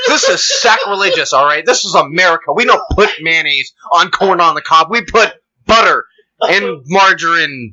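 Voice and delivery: mildly high mock indignation; mock prim onlooker. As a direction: keep up the offended bystander. Mock white onlooker continues.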